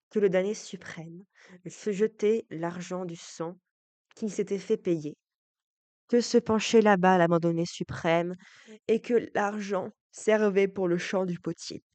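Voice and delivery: solemn, projected recitation of tragic verse; emphatic verse recitation. Acted. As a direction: declaim the verse with growing force.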